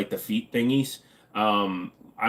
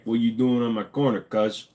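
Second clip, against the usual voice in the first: lightly attempted urban street accent. Shown as a demonstration. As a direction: try out an urban accent, half-hearted. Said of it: "Can I do an urban accent?".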